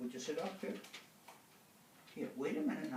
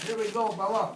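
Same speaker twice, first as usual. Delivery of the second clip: excited cheer; 6 semitones higher, 8 dB louder than usual. Real, not acted. Cheering dog on treadmill.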